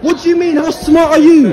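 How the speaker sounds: a sudden shout that breaks into a scornful laugh; mocking outburst. Real, not acted. Shouting at the security guard with a scornful laugh. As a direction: laugh at them while yelling. Angry row with store security.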